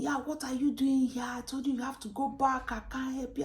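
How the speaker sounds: high, loud brush-off of an unwelcome visitor; dismissive official. Retold or imitated. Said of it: "So the woman was saying".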